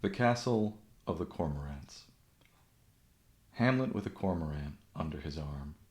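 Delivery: measured poem reading with long pauses; understated recital, voice sinking softly at line ends; poetry reading. Acted. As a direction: read it as verse, letting each line settle. Reads a poem aloud.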